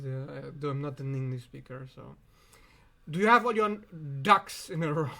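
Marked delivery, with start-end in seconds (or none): 3.1-5.1 1 laughing at the phrase. Real, not acted. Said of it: "This is fucking".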